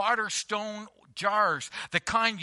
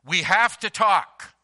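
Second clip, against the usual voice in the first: wife demanding a talk; 2 semitones higher, 7 dB louder than usual. Retold or imitated. Pastor voicing a wife to her husband, louder and firm. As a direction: play the wife who won't wait. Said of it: "and says".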